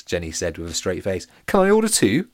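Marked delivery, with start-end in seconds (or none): 1.5-2.3 put-on high, loud cheeky girl's voice. A narrator's reading. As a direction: ask for seconds in a high cheeky voice. Jenny deadpan joke, character voice.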